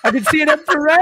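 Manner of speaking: half-shouted through laughter. Real, not acted. Shouting it again through laughter so the others hear. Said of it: "You can what?".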